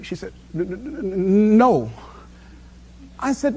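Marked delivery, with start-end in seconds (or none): 0.5-1.9 slow stammered n-, n-, n- before no; friend's stutter acted out by the teller; imitating a stutter. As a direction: mimic the friend stuttering, slowly. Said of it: "she stutters".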